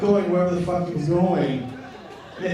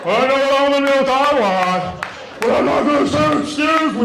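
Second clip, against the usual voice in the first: loud, higher, snippy mock complaint; impatient shopper; 6 semitones higher, 8 dB louder than usual. Impatient shopper behind him.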